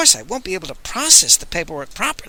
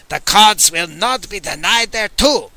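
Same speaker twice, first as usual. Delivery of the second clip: roaring; 4 semitones higher, 4 dB louder than usual. Acted.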